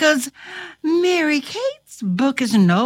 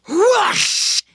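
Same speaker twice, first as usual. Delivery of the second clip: high, rushing whoosh; whoosh sound effect; 9 semitones higher than usual. A narrator's reading. Narrator flings the burglar down, whooshing. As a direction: imitate something flung through the air.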